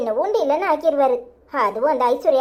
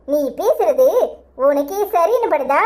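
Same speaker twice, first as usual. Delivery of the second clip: incredulous laugh through the words, slow; laughing at how absurd his offer is; scoffing laugh; slower than usual. Acted. Woman laughs off her friend's improper proposal, scornful laugh.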